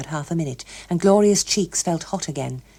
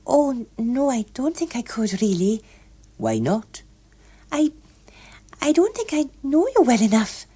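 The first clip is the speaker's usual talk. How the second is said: put-on flustered young woman; 7 semitones higher than usual. A narrator's reading. Gloria declining, higher voice.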